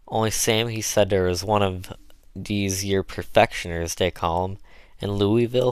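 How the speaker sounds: Southern dialect, eager and chatty; a hint of an earnest old servant; lively dialect pitch to the mistress; lightly voiced Chloe, folksy cook.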